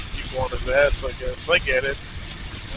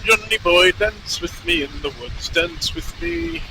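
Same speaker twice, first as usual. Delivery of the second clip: attempted Irish accent. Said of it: "can't do an Irish accent".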